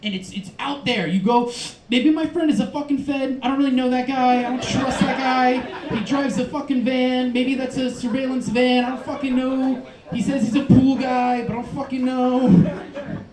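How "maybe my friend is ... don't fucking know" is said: mock paranoia. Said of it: "regular pot paranoia is external".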